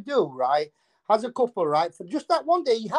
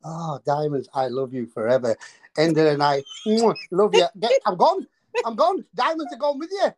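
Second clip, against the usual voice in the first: gold digger voice; 3 semitones lower than usual. Retold or imitated. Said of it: "The gold diggers work like this".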